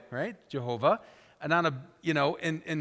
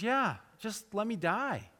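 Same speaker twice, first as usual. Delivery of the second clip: sulking Jonah; 5 semitones higher, 4 dB quieter, slower than usual. Acted. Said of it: "He goes".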